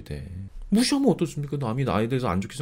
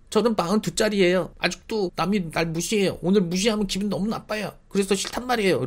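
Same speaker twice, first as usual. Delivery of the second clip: higher, childlike voice mocking an adult; childish whiner; 5 semitones higher than usual. Mocking a thirty-eight-year-old who sounds like a schoolkid, higher childish whine. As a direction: sound like a sulky middle schooler. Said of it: "그건 어른이 아니야".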